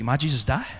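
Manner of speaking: a hint of a child's questioning voice; child's simple question, lightly voiced; lightly imitated child. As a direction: lightly mimic a little boy asking, rising at the end. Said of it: "that's how he could speak".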